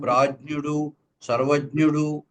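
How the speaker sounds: ప్రాజ్ఞుడు, సర్వజ్ఞుడు with j-nyu, no g; correct pronunciation. Shown as a demonstration. Teacher listing example words, ప్రాజ్ఞుడు, సర్వజ్ఞుడు with palatal jny. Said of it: "జ్ఞా అనే పలకాలి".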